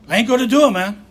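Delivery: stubborn retold "no way"; defiant refusal. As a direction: dig in your heels and say no. Defiant refusal to his sponsor.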